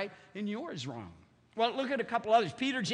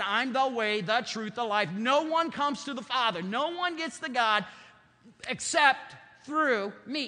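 emphatic proclamation; 3 semitones higher, 4 dB louder than usual. Acted. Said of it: "He said".

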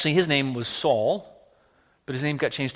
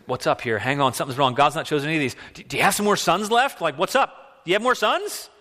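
put-on Yiddish accent; 3 semitones higher, 4 dB louder than usual. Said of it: "picturing all the, the biblical characters with those accents".

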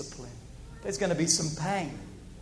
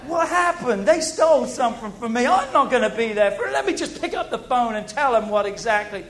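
mock indignant; 3 semitones higher, 5 dB louder than usual. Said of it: "and then you go home and like".

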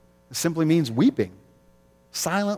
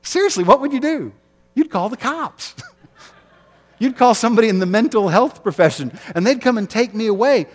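higher, laughing disbelief; incredulous laughing aside; amused; 8 semitones higher, 5 dB louder than usual. Real, not acted. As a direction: laugh at the absurdity.

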